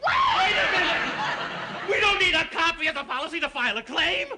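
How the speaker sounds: high, shrill outburst; getting shrill. Acted. Policyholder stopping the agent from leaving, shrill. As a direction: protest in a shrill, rising yell. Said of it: "You're getting shrill again".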